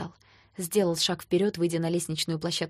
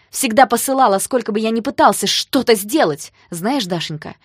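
loud furious comeback, pitched up; angry retort; 3 semitones higher, 11 dB louder than usual. Acted. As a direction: hurl it back at her. Danya shouts back in argument.

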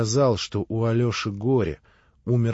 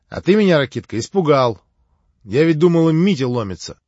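excited; 4 semitones higher, 7 dB louder, faster than usual. Acted. Grushenka recalls her fright.

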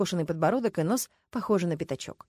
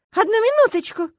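loud, much higher shout to stop her; yelling out; 8 dB louder than usual. A narrator's reading. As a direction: bellow it to grab attention. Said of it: "завопила Люська".

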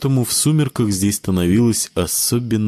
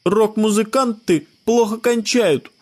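put-on high boy's voice, lecturing; a smart boy stating facts, high; know-it-all child; 12 semitones higher than usual. A narrator's reading. Scott warns Sebastian, high know-it-all child voice. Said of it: "подал заумный голос Скотт Петерсон".

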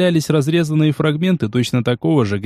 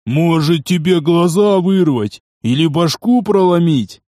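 yelling; 4 semitones higher, slower than usual. Acted. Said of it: "не переставая орать".

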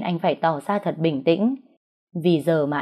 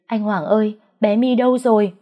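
higher, louder frightened calling out; panicked call; 4 semitones higher, 4 dB louder than usual. A narrator's reading. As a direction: shout across the park for him. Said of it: "Tôi kêu lên". (gọi to hoảng hốt)

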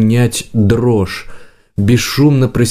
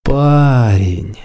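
drawn-out, mock-sweet address; affectionate. A narrator's reading. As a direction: say it gently, coaxing the captive. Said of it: "ласково сказал Лысый".

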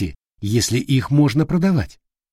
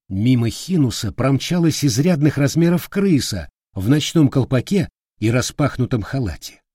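ordinary delivery

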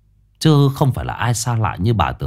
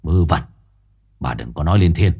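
dismissive; 4 semitones lower than usual. Acted. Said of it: "Hùng xua tay đáp".

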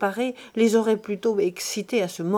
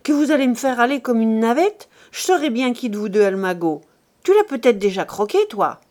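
insolent accusation; 2 semitones higher, 5 dB louder, faster than usual. Acted. Son insolently accuses his mother.

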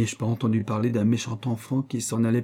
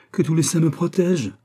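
laughing exclamation; 6 semitones higher, 5 dB louder than usual. A narrator's reading. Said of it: "s'écria Onesta, riant plus fort".

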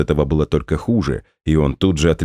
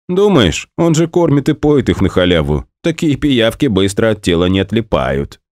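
shadow's voice; 5 semitones higher than usual. Acted. The shadow speaks.

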